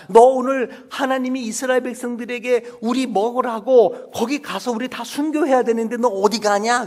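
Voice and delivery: high, loud bird voice scolding; scolding quail. Acted. A quail scolding a runaway quail about martyrdom. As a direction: tell the runaway off.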